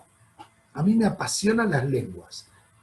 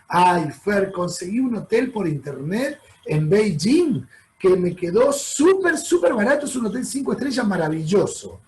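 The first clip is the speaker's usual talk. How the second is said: mock excited client. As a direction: imitate a naive traveller thrilled with a bargain. Client brags about cheap hotel. (turista ingenuo imitado, entusiasmado por su hotel barato)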